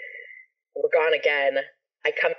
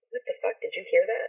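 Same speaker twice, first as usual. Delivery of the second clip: hushed disbelief; 3 semitones higher, 5 dB quieter, faster than usual. Retold or imitated. Retold shocked reaction, hushed.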